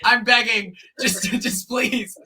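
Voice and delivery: loud, high begging that winds down; exaggerated plea, fading from a yell; mock desperate pleading. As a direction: cry out for them to stop, hammed-up. Acted horrified plea at bad timing.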